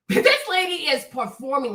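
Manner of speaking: said through a laugh; amused repeat. Real, not acted. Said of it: "Nah, this lady is performing".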